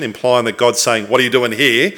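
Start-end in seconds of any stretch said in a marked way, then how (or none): 1.1-1.9 mock reproachful question, lightly pressed; mildly angry tone. Preacher imitating a misreading of God's question, mildly angry. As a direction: ask it with a touch of accusation. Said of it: "read an angry tone into that question".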